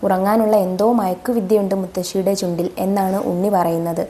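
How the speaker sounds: usual speaking voice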